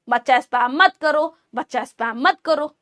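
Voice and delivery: soft, easy request to the class; teacher gently asking students not to spam; calm and gentle. Shown as a demonstration. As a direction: ask nicely, no pressure. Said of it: "आराम से बोल रही थी कि बच्चा spam मत करो".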